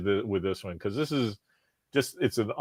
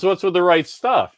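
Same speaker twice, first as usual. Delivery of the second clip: put-on old guy stranger; 10 semitones higher, 8 dB louder than usual. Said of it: "He goes".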